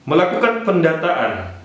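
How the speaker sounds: reading an official circular aloud; formal announcement read; formal letter reading. Acted.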